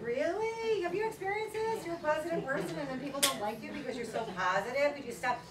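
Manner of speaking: high, disbelieving reply; incredulous retort. Retold or imitated. Speaker answering a friend, high and disbelieving.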